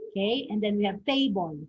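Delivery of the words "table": "table" with TA stressed; stress on first syllable. Shown as a demonstration. Teacher giving students a further example, first-syllable stress. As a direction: hit TA in "table", falling after. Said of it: "impact is on the first syllable".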